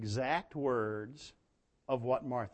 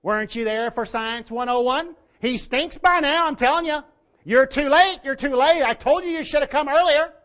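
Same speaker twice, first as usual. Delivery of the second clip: sassy, disrespectful nagging; very high, loud mock scolding; hammed-up saucy woman telling someone off; Martha; 12 semitones higher, 14 dB louder than usual. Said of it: "sassy and a little saucy".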